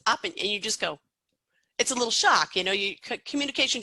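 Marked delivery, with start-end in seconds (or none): 0.1-0.3 imitating a learner stressing the first syllable of "Opin-"; cut-off "Opin-" with the opening O stressed; imitated misplaced stress. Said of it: "when somebody says".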